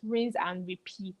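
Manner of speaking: breathy whisper on the last words; whispered aside. Retold or imitated. Fan comment read aloud, whispered. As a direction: drop to a whisper to mock.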